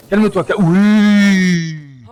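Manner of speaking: high, loud, drawn-out plea to calm down; frantic pleading. Acted. Rider pleading loudly with a bucking wild horse. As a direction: yell soothing words over the chaos.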